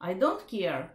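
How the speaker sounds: calm, even "I don't care" with a falling end; neutral. Shown as a demonstration. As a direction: say it flat and unbothered, no edge. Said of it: "Just say neutral".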